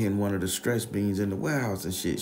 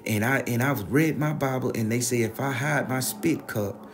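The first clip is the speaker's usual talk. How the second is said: raised, higher-pitched accusing rant, imitated; indignant grandma; 4 semitones higher than usual. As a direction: play a grandma laying out her accusation. Acted grandma accusing the friend.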